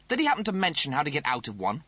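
high, snooty officer voice; pompous Rimmer voice. Acted. Rimmer asks.

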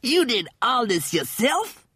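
high-pitched incredulous question; amazed. Acted. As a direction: marvel at what one person achieved. Cat amazed at the valley.

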